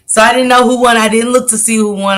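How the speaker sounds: can't keep the laugh out of the words. Real, not acted. Streamer tells chat she slept through the fight, laughing. Laughing at her own story.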